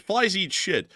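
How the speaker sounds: mock-quoting the Supreme Leader. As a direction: deliver it like a solemn decree. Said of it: "the Supreme Leader of Iran said".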